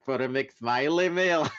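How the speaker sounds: hammed-up fast food ad line; mock ad jingle. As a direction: sell it like a cheesy ad. Mock ad slogan.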